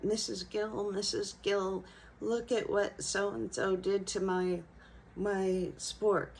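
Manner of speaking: understated mock wail of a wronged little girl; imitating upset child. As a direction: retell a crying child's complaint without screaming. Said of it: "she started screaming and crying".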